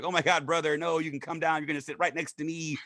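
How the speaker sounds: lightly voiced friendly woman inviting him; a touch of Tam's welcoming voice; imitating Tam. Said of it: "I could hear Tam's voice in my head".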